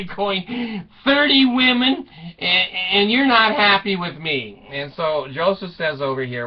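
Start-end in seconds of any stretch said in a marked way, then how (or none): 1.0-4.7 loud, high indignant cry, easing off; hammed-up scolding yell; mock outrage. Wife beating husband over thirty women, mock-outraged yell.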